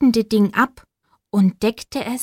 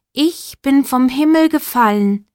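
shooting star voice; 4 semitones higher than usual. Acted. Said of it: "sagte die Sternschnuppe".

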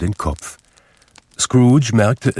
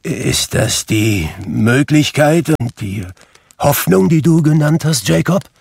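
high, loud, frightened question; falter, then rise in alarm; trembling, anxious disbelief; quavering voice; 8 semitones higher, 5 dB louder than usual. A narrator's reading. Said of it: "fragte er mit bebender Stimme".

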